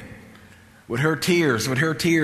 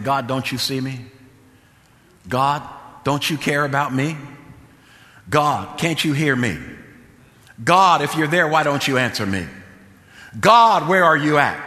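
retold plea, growing louder; crying out to God; 4 dB louder than usual. Woman alone in her apartment, retold crying out to God. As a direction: call to God as she did, building on each question. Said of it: "crying out to God".

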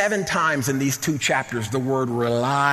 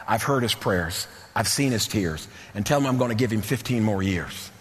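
lower, gently delivered words of God; reassuring retold promise; 5 semitones lower, 3 dB quieter than usual. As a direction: bring the pitch down and give the promise calmly. God answers the weeping king's prayer.

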